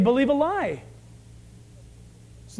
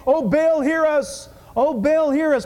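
loud pleading cry; 5 semitones higher, 5 dB louder than usual. Acted. Prophets crying out to Baal.

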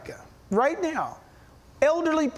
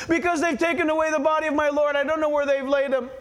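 quick, slightly raised, upset delivery; mock distressed; faster than usual. Crying woman turns to answer them, mildly distressed retelling. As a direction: rush it out in a mildly distressed monotone. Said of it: "She's crying".

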